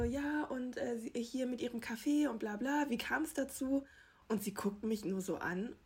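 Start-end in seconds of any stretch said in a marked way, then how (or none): 0.0-3.9 re-enacted interview question, higher pitched; casual, higher-pitched mock interviewing; breezy reporter question. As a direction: lightly act out a chatty red-carpet question. Acts out her chirpy interview question.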